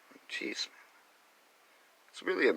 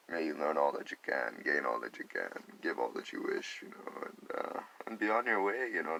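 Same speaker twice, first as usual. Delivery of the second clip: gentle welcome; 4 dB quieter than usual. Retold or imitated.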